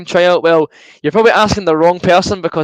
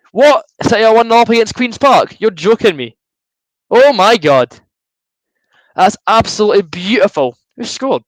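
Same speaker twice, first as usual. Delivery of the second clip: real surprise; 6 semitones higher than usual. Real, not acted. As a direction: blurt it out, genuinely shocked. Hearing a surprise score live.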